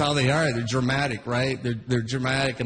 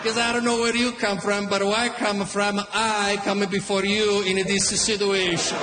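a hot-headed Italian father threatening the line-cutter; Italian dad; 2 semitones higher than usual. Retold or imitated. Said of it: "always comparing himself".

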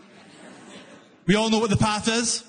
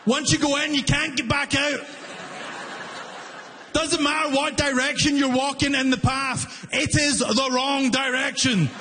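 mock panic; 5 semitones higher than usual. Real, not acted. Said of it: "I am panicking".

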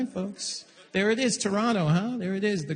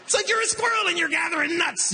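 high-pitched talking-down banker impression; mock someone explaining to a dummy; condescending banker voice; 8 semitones higher, faster than usual. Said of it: "that's the voice he's using too".

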